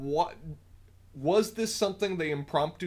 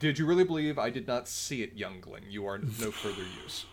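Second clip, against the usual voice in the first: villain voice; 4 semitones lower than usual. Retold or imitated.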